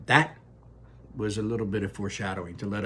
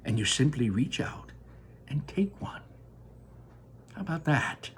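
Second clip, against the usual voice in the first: Wonka crying out; 5 semitones higher, 3 dB quieter than usual. Acted. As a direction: sing it out with delight.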